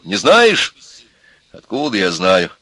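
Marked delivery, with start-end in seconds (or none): 0.0-0.8 high, loud angry demand; raised voice. A narrator's reading. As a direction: raise your voice to interrogate. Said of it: "Опять повысил он голос". (повышенный голос, сердитый вопрос)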